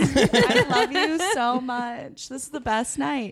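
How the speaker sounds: slow, giggly declaration of love; mock gushing. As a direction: gush with exaggerated affection, laughing. Sudden mushy love after arguing.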